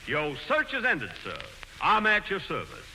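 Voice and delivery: a light touch of a mock Southern gentleman accent. Auditioning for Ratoff as the Southern hero, light mock Southern accent. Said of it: "Like a minstrel show".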